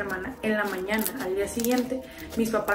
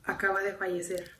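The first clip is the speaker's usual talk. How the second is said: retold grave news, trailing down softer; breaking bad news; 3 semitones lower, 5 dB quieter than usual. Los papás dan la mala noticia. (noticia grave, lenta y titubeante)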